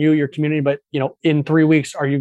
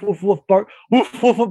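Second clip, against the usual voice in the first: imitated dog barks; 6 semitones higher than usual. Man retells barking in a bar, mock woofs. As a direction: bark like a dog for the story. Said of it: "barking like a dog".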